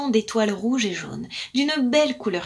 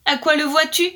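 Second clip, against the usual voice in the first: lightly voiced blackbird; 5 semitones higher, 4 dB louder than usual. Blackbird asks puzzled.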